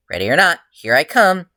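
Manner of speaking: a hero eager for the fight. A narrator's reading. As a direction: sing it out like a game of hide and seek. Hero charging off gleefully.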